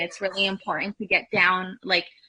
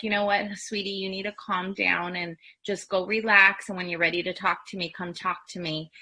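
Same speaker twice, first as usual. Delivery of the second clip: soothing parent. Shown as a demonstration. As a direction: gently send the child to relax. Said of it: "they can be like".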